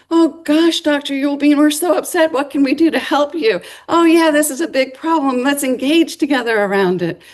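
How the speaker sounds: high, eager, over-sweet sympathy; gushing students. Pretend. Imagined students fussing over Doctor Yulbein, high and gushing. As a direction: lay on the concern thick.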